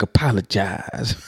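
slow, low drawn-out apologize; imitation of a rapper. Vlogger imitating the South Park rapper line, slow. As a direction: drag it out slowly like the cartoon. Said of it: "he sound like that episode on South Park".

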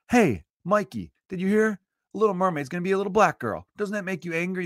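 lightly voiced barfly stirring up outrage; bar buddy Bobby. Bobby at the bar baits Mikey about the mermaid, mock gossip. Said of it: "some guy named Bobby goes".

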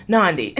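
"Nandi" said NAHN-dee with a little laugh; getting it right. Retold or imitated. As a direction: land on "Nandi" correctly, amused. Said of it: "And then they're like".

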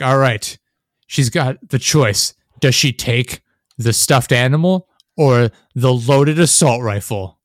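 slow, emphatic, sarcastic set-up; measured mock suspense; mock game-show choice. Acts game host posing stupid choice.

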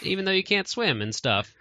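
high-pitched mock Tails voice; high put-on voice for Tails; imitating Tails. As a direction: pitch it way up to play the kid fox inviting Sonic. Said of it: "Tails is like".

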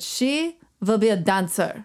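slow, mock German accent; fake German accent. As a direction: play the German lady, lightly accented. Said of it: "So I'm gonna do a fake German accent".

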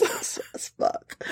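whispered it's sus; muttered. Real, not acted. Host quietly conceding it's suspicious, muttered. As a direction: say it under your breath.

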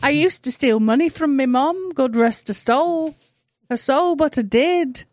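put-on mixed dialect accent; Nigel's accent. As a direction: confess in a muddled mock accent. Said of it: "that's the same accent I did".

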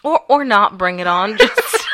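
loud laughing joke. Real, not acted. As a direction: laugh through the words.

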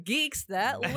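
nerdy white guy announcing; super white guy voice. Retold or imitated. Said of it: "us being super white, going".

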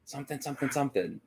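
mimicking someone's indistinct whispering; mock whisper, voiceless and trailing. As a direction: whisper it like muffled chatter picked up on a recording. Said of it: "all I'm gonna hear ... is just whispers".

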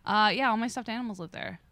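imitating a casual, dead-serious man; nonchalant. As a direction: say it offhand, as if perfectly normal. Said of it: "said it so nonchalantly".

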